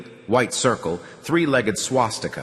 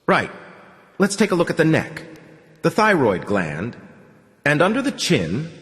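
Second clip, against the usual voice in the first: put-on higher sing-song doctor with an accent; 7 semitones higher than usual. A narrator's reading. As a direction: lilt it like an oily foreign doctor. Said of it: "sing-song voice with an undefeated accent".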